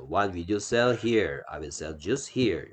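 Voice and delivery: very slow, word by word; 천천히 또박또박 읽어 주기; slow model reading. Shown as a demonstration. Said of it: "teacher models question and answer". (아주 느린 시범 읽기)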